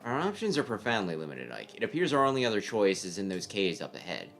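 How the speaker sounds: cool, measured voice of a strategist; calm tactician voice. Acted. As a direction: lay out the plan coolly.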